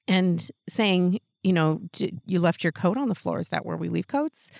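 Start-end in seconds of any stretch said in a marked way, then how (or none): 1.9-4.5 a touch softer, mild gentle correction; softly reminding a little kid about the coat, mildly gentle. Retold or imitated. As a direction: kneel down and ease it to a child, lightly. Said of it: "just something very gentle like that".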